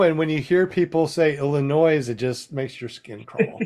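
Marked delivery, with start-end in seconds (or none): 1.4-2.1 "Illinois" as il-ə-NOYZ; Illinois with sounded S. Retold or imitated. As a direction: let the final S of "Illinois" buzz. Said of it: "S at the end".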